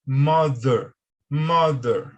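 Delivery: "Mother" with a firm D-like th; firm voiced th. Shown as a demonstration. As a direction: repeat "mother" firmly. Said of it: "ela é mais firme, parecendo com o D".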